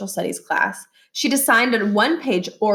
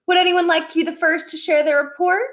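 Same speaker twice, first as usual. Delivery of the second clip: lightly voiced teacher, higher and bright-eyed; a hint of a cheery teacher asking the class; 8 semitones higher than usual. Teacher invites the class to present, lightly voiced.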